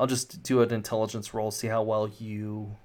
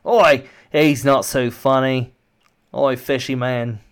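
taunting guard; 9 dB louder than usual. Acted. Guard mocks his captive in the tank, taunting. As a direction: jeer like a rough-mannered guard.

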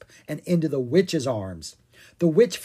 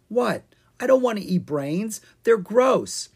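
indignant protest; 8 semitones higher, 4 dB louder than usual. A narrator's reading. Owen protests to Ella.

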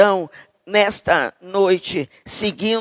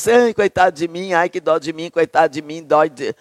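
hammed-up self-pity, whimpering; mock whining; 4 semitones lower than usual. Preacher mocks Jeremiah's self-pity with a whining voice. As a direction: whine like a sorry victim, half mocking. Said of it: "Tá lá todo".

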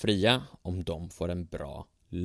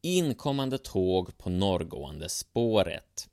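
calling out; slower than usual. Acted. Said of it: "ropade rösten".

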